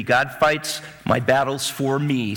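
slow, deliberate phrase for the crowd to repeat; slow call and response. Shown as a demonstration. Preacher leading the church in a slow refrain. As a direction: lead the congregation slowly. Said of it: "say it with me".

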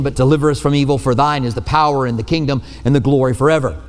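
steady rote recitation of a prayer; recited prayer. Acted. Pastor reciting the Lord's Prayer to the congregation, steady and measured. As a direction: say it as the familiar memorized prayer.

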